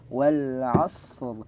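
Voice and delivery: "Wal asr" dengan ra lembut tanpa tekanan; tajwid demo. Shown as a demonstration. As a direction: baca "Wal asr" dengan ra tipis tidak ditekan. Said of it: "Tapi jangan ditekan". (ra pada "Wal asr" tanpa tasydid)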